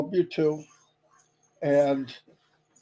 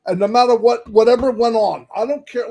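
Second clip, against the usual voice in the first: emphatic; 4 semitones higher, 7 dB louder than usual. Real, not acted. Emphatic defiant point.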